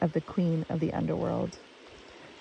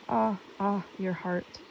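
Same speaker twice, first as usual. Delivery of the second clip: mild sigh, fading softer; 2 semitones higher, 3 dB quieter than usual. A narrator's reading. Creatures echo the queen, mildly sighing. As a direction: echo a sigh and let it fall away. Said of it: "They sighed".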